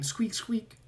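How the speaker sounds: whispered rat squeaks. Acted. GM voicing Ratrick.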